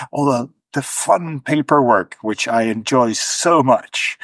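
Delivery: dry sarcasm about paperwork; sarcastic. Real, not acted. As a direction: say it with mock delight, clearly sarcastic. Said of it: "if you can't hear the sarcasm in my voice".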